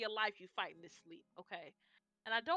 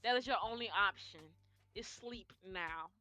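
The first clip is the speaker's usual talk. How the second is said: slow, louder, word-by-word mom command; slow stern order; 5 dB louder than usual. Retold or imitated. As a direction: spell it out slowly, no arguing. Ordering goddaughter to sleep.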